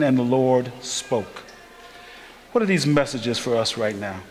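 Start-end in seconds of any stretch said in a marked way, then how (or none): 0.0-1.4 slow, weighty scripture reading. Shown as a demonstration. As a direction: read the verse slowly with weight. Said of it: "In verse ten".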